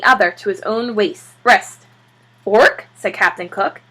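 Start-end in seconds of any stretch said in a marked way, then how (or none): 2.4-2.9 louder, put-out squawk; indignant penguin ork. Acted. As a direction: object like an offended penguin.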